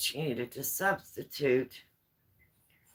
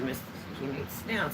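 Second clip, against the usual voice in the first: softly urgent; 5 dB quieter, much faster than usual. Retold or imitated. Warning husband before bad news.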